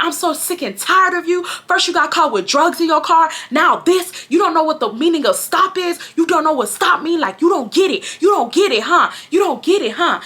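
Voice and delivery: high-pitched exasperated mom imitation; lecturing mom. Mom dragging her child downstairs, lecturing. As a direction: imitate a fed-up mother. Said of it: "she's giving me a lecture".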